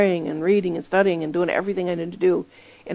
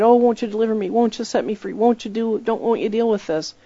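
pleading cry; 4 semitones higher than usual. Retold or imitated. Preacher imitates the woman pleading with God, mock plea. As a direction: beg for deliverance, lightly imitated. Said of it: "she's crying out day and night".

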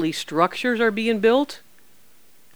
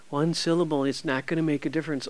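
lightly voiced devil's lie, lower and softer; understated, low dismissive voice of the enemy; the enemy's lie; 4 semitones lower, 6 dB quieter than usual. Preacher mimicking the enemy's lie to listeners, lightly dismissive. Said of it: "That's a lie from the enemy".

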